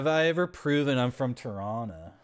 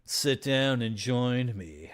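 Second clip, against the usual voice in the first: slow, cool and unbothered; casual invitation; slower than usual. Pretend. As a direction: play it smooth like a big shot. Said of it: "I'm gonna be like".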